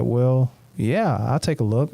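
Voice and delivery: imitating a friend's unhurried drawn-out reply; slow talker. Retelling how Cody said yes, kinda slow. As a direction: lightly mimic someone who talks kinda slow. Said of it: "like, kinda slow".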